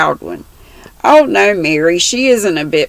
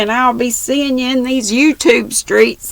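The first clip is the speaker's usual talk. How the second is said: cheery sign-off; 8 semitones higher than usual. Real, not acted. Vlog sign-off.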